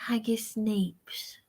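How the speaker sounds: "Haggis neeps" whispered slowly with no voice; whispered repeat. Shown as a demonstration. Host slowly whispering the Scottish dish names back to himself. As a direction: murmur "Haggis neeps" slowly under your breath, tasting the words.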